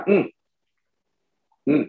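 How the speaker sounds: short "hmm" grunt; half-word grunt. Acted. Silent-type husband answering in half a word, noncommittal grunt. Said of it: "setengah kata".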